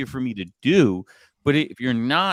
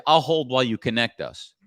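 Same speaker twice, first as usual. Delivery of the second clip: confident, matter-of-fact command; authoritative. Shown as a demonstration. Telemarketer to gatekeeper, calm and authoritative. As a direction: assume the connection is happening. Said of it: "That's an authority speaking".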